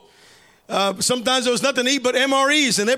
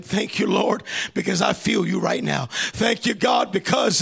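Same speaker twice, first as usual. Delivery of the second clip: thankful prayer; 5 semitones lower than usual. Acted. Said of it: "you begin to thank him".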